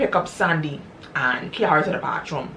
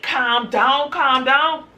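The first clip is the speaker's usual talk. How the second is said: much higher, urgent calming; frantic pleading; 9 semitones higher, much slower than usual. Retold or imitated. Husband holding his wife back, high and urgent. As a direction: plead with her to stop.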